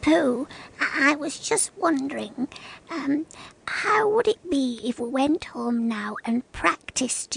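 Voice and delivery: halting, tentative, with stammers and ums; hesitant suggestion. Acted. Piglet asks Pooh about going home to practise, hesitant. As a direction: feel your way nervously into the suggestion.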